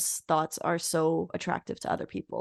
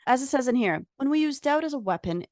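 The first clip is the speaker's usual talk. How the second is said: higher, louder reading-aloud voice; quote voice; 6 semitones higher, 4 dB louder than usual. Shown as a demonstration. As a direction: mark it clearly as someone else's words. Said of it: "like, a quote voice".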